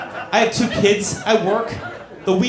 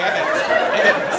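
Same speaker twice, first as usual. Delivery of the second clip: squeaky effortful reassurance; high strained whisper; faster than usual. Retold or imitated. Husband reaching under the bed, high strained.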